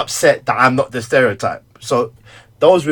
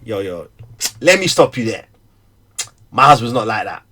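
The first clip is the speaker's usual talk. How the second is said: firm defence; 2 semitones higher, 4 dB louder than usual. Retold or imitated. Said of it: "didn't once say".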